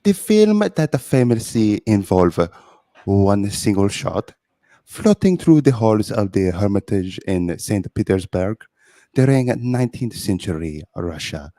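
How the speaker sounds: French guest Pierre. Acted. Guest reading the review to the host, in a mock French accent. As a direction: read the magazine blurb as a pompous Frenchman. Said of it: "This is, uh, Pierre".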